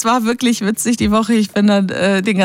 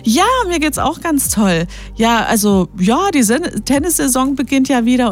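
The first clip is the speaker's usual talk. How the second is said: imitating the doctor; 3 semitones higher than usual. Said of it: "Ja, und wie geht's dir?".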